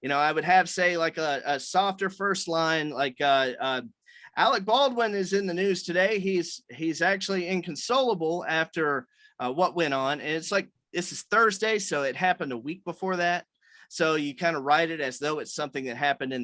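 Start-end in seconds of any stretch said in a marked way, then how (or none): 4.4-10.2 news reporter voice. Shown as a demonstration. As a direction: read it like a TV news anchor. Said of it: "talk in your news reporter voice".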